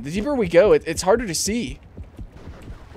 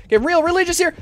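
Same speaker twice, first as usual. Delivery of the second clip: Getting real religious here raised high; high, mock-fervent; 11 semitones higher, 5 dB louder, faster than usual. Shown as a demonstration. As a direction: repeat it higher and louder, like a prayer.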